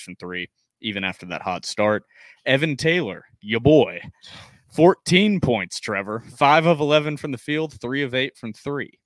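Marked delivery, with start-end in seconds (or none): 2.5-8.0 hype-man shout. Real, not acted. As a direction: hype him up like an arena announcer. Hyping up the co-host's stats.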